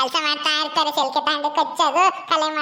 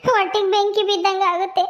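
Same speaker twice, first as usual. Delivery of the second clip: acted tearful lament with sobs; weeping complaint, breaking into sobs; crying; 2 semitones higher than usual. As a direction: wail your grief to a brother. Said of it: "ಯಾಕೆ ಅಳ್ತೀಯ".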